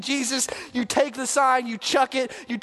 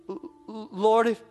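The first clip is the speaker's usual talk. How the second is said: halting, stammered plea with broken starts; a frightened man barely getting the words out; mild stammer of fear. Acted. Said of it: "With a trembling voice".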